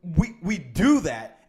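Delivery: loud, slow emphasis on DO; teed off. Real, not acted. Coach to listeners, still a little teed off. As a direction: punch it out, still a little peeved. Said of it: "I'm still a little teed off".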